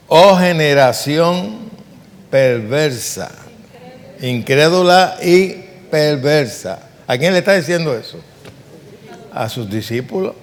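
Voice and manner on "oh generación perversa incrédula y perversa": slow, louder, drawn-out reproach; a lightly voiced Jesus scolding his disciples; measured slow mock rebuke; stern rebuke.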